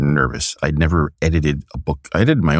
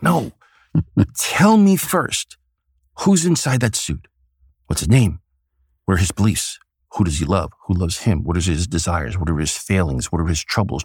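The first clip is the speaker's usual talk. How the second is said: a hint of the old showman, pitched up; Stan Lee impression. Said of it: "my Stan Lee impersonation".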